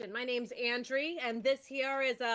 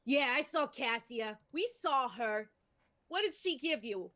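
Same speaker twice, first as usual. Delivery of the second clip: pushy halfling; 2 semitones higher than usual. Acted. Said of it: "the halfling takes a step towards you and goes".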